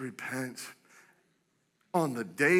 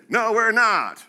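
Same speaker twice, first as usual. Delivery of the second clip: retold shout; 4 semitones higher, 8 dB louder, slower than usual. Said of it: "He's just shouting in this thing".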